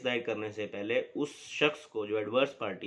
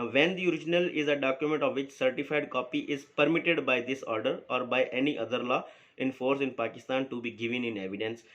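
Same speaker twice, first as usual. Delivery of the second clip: slow, deliberate reading of the law text; measured recital of legal wording; reading the statute aloud; much slower than usual. Acted. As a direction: read each clause out slowly, like dictating to students. Lecturer reads statute text aloud.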